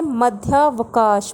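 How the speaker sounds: teacher announcing the next word slowly; slow headword. Shown as a demonstration. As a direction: say मध्यावकाश slowly and clearly, syllable by syllable. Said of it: "अगला है".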